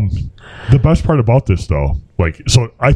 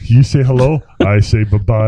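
David Spade impression; slower than usual. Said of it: "There's your David Spade".

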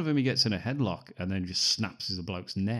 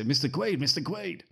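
calling out; 7 semitones higher, 3 dB louder than usual. Retold or imitated. Voicing characters calling out to Quaid.

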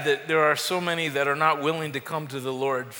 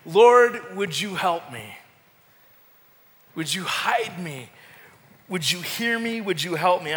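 pleading prayer. Acted. Preacher acting out a believer's desperate prayer, pleading. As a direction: plead with God as if at your limit.

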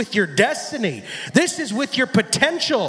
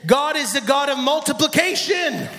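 preaching shout; 4 semitones higher than usual. Real, not acted.

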